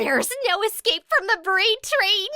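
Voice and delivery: high, loud gloating chant; sing-song threat; gleeful Ashido. A narrator's reading. Ashido gloating at Hitoshi, high and gleeful.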